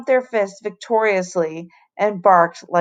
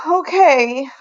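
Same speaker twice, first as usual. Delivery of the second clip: anger-choked; 8 semitones higher, 4 dB louder than usual. A narrator's reading. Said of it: "in an anger-choked voice".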